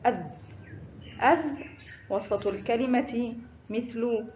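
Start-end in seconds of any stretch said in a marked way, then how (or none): 0.1-1.5 "أذ" with a voiced, vowelless final dh; sukun on dhaal. Shown as a demonstration. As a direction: say "أذ" ending on th as in this. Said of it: "حرف الذال فوقه سكون ينطق". (نطق "أذ" بذال ساكنة)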